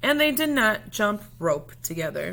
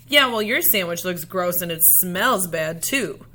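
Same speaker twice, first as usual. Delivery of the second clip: snapped back; 4 dB louder than usual. Acted. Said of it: "Selma snapped back".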